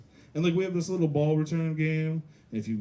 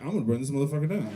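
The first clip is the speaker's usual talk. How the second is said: deep-voiced kid; much faster than usual. Kid after no ice cream, mock deep threat. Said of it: "that has a deep voice, kid".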